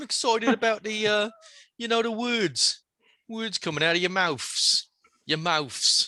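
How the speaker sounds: very high, put-on Cockney accent, laid on. Greeting the hosts and offering support, in a mock cockney accent. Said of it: "Cockney accent".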